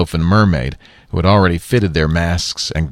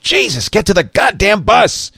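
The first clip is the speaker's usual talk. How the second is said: urgent yell; 12 semitones higher than usual. A narrator's reading. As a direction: drive them to the bus. Lee Daniel urges investors.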